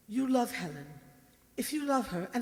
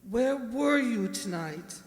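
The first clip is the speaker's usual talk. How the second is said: stern question; 5 dB louder than usual. Acted. Mother interrogates Stephen.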